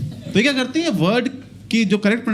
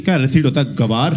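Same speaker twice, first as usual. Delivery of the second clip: lower, scornful jab; mocking friend; 7 semitones lower than usual. Friend scorning a mispronounced receipt, mocking. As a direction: sneer at the fool.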